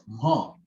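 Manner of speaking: teacher's careful demo of throaty "ma"; "ma" sounded out from the vocal cords. Shown as a demonstration. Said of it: "pronounce from your vocal cord".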